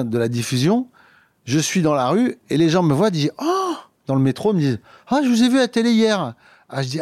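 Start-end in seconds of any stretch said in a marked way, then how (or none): 3.4-3.7 lightly voiced excited stranger; high surprised oh; mock fan exclaiming. Comedian imitating a passerby, high excited exclaim. People recognising him in street. 5.1-6.3 higher voice of a passerby recognizing him; mock excited fan. Comedian imitating metro stranger, higher and eager.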